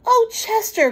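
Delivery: a touch of motherly alarm; mother crying out. Acted. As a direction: reach out to him. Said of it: "cried Missus Raccoon".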